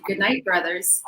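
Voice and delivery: slow, measured, courteous goodnight; friendly greeting. Retold or imitated. Woman greeting catcallers as brothers, slow and even. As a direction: greet them evenly and familiarly, retold. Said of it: "I said to them in Arabic".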